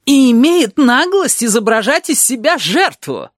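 high, slow, outraged proclamation; furious indignation. A narrator's reading. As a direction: stretch each word with theatrical outrage. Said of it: "неожиданно красивая в ярости". (яростное возмущение, высоким голосом)

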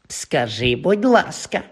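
хитро підвищуй голос на другій половині; дражни, вимагаючи ввічливості; занудне дражніння. Acted. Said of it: "простягнув Півз своїм занудним голосом". (занудним голосом)

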